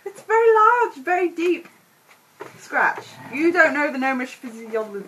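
high, loud whiny protest; whining gnome. Acted. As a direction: make a fuss over a scratch. Gnome exaggerating small cut.

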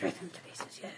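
muttered to himself. Pretend. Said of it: "I'm muttering to myself".

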